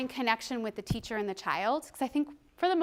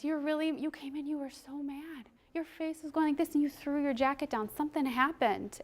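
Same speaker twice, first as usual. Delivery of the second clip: softened, earnest acknowledgment; validating; 6 dB quieter than usual. Acted. Teacher to a child who came in mad, soft validation. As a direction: gently show the child you noticed. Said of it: "validating the experience".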